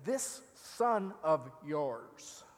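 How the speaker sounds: slow, sneering "son" drawn out; mock disdain for the brother; sarcastic. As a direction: spit out "This son of yours" with scorn. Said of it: "Do you hear the sarcasm".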